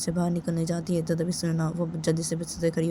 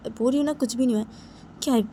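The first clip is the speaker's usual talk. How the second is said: exasperated denial; 5 semitones higher, 3 dB louder, faster than usual. Acted. Crying girl brushes off questions.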